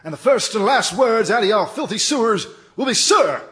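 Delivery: barking drill sergeant. Acted. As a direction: bark orders like a drill instructor.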